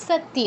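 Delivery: সত্য as sat-tiya, glide audible; full y sound. Shown as a demonstration. Teacher confirming the correct form, সত্য as sattiya. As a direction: pronounce সত্য with t then iya. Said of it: "একদম ঠিক".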